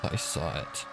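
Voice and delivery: hushed and stunned. A narrator's reading. Stunned partner answers.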